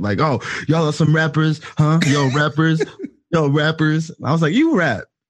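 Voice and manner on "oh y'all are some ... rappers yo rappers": play-acted sloppy, overconfident drunk bravado. Retelling how a guy came up to the group, imitating him drunk and confident. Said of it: "came up like super drunk and just confident".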